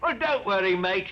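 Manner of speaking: high, singsong taunting; mock sympathy. Betrayer gloating to captive about fifteen years away, mock sympathy. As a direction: coo false comfort to rub it in. Betrayer mocks the captured men.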